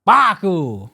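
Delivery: mock African accent on a name. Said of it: "put on your African accent".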